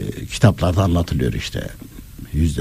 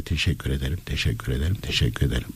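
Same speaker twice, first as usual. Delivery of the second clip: softer, lower, repeated mechanically; rote thanks; 4 semitones lower, 7 dB quieter, faster than usual. Acted. Someone made to keep saying thanks, in a low rote voice. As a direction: say it low, like a habit.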